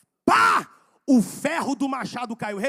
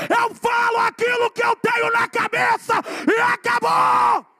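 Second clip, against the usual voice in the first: very loud, high, slow defiant sermon; full-force preaching; 10 semitones higher, 8 dB louder, slower than usual. Acted. Preacher defying his critics, loud defiant preaching. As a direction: shout it down at the critics.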